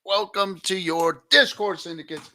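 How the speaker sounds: big, high-pitched pirate shout; pirate hail. Acted. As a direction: hail the crew like a captain on deck. Streamer greets viewers as pirate captain.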